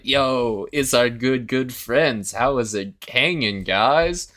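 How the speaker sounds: playful little mascot. Retold or imitated. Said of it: "the other mascots are like".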